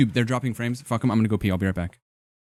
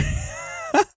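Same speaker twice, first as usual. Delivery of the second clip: high squeaky laugh. Real, not acted. Laughing at own joke.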